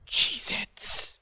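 a soft, creepy whispered cackle of a word; cackling whisper. A narrator's reading. Narrator voicing the fading old man, in a creepy whisper. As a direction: breathe it out like a sly old man. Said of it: "you hear a cackling whisper of".

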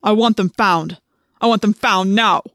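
loud, forceful command; angry demand. A narrator's reading. Visser Three orders Chapman, loud angry command. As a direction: bark the order to find them.

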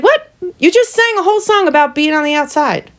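sudden high "What?" then incredulous; high-pitched mock surprise; mock disbelief. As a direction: act baffled at her. Mocking singer for contradiction.

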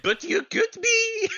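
high, loud mock-French voice; silly French accent. Teasing a friend into being French, squeaky mock-French accent. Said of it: "why am I French now?".

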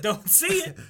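high squeaky warning; high-pitched. Pretend. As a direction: pitch it way up, a bit silly. Repeat, high odd voice.

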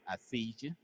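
a hint of a threatening inmate leaning in close; prison creep. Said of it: "That sound like it says".

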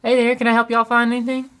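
high Southern shop assistant; cheery Southern accent; Southern customer service voice. Shown as a demonstration. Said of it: "a little bit of Southern in my customer service voice".

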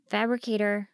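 a touch pathetic; pathetic, timid. A narrator's reading. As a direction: call out meekly, hoping for an answer. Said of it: "I sounded so pathetic".

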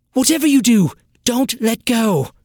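high, loud desperate plea, slowing on the end. Acted. Trin begs her sister high and loud not to let go. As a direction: beg her never to let go.

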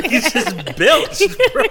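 drawn-out laughing tease; slow, laughing through the words. Real, not acted. Teasing friend after burp.

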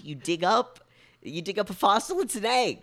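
high, loud rant breaking into laughter; laughing rant. Real, not acted. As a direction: rant through giggles, pitch climbing.

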